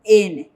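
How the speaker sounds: the Korean final sound N said clearly and firmly; N pronounced for the class. Shown as a demonstration. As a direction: say N as a clear teaching example. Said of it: "tienen que leer sonido".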